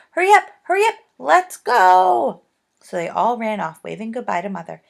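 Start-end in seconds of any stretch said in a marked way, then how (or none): 0.1-2.4 high, loud and bubbling over; a little girl too excited to wait; delighted. A narrator's reading. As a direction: urge them on, bouncing with joy. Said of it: "dancing round in delight".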